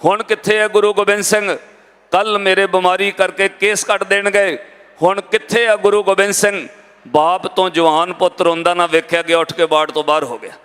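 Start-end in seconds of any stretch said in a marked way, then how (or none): 0.0-4.6 mildly raised, imitated wailing lament; retold tearful cry. Blind young man crying to his dead mother, mildly acted lament. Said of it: "ਉੱਚੀ ਉੱਚੀ ਰੋ ਕੇ ਕਹਿੰਦਾ". 5.0-6.7 mildly raised, imitated anguished question; retold tearful cry. Blind young man asks where his Guru is, imitated lament. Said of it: "ਉੱਚੀ ਉੱਚੀ ਰੋ ਕੇ ਕਹਿੰਦਾ".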